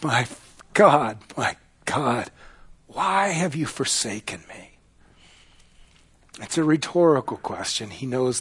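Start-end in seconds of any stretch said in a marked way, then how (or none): 0.0-4.8 anguished plea. Acted. Acts Jesus crying out to heaven.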